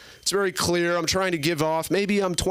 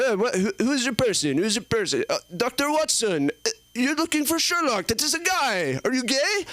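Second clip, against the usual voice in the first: creepy French guy; 7 semitones higher than usual. Retold or imitated. Acted exchange with French guy.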